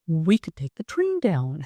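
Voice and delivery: husband's line retold in a whisper; whispering the husband's idea; whispered quote. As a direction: breathe it out as a whisper.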